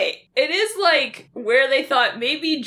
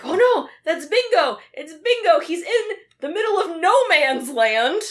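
higher, urgent mock cry; mock alarm; 4 semitones higher than usual. Soldiers spot the dog in no man's land, mock alarm. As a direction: imitate soldiers calling out in alarm.

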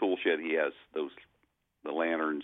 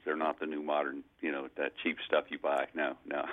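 lightly joking auctioneer patter; a hint of a salesman on the block; 2 semitones lower than usual. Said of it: "joking in the, uh, auctioneer voice there".

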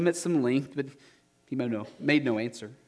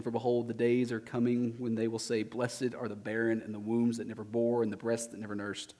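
Jesus, gentle warning; 5 dB quieter than usual. Acted. Jesus speaks to the weeping women.

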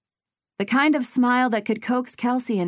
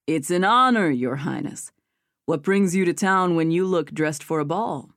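princely manner. A narrator's reading. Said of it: "speak in a princely manner".

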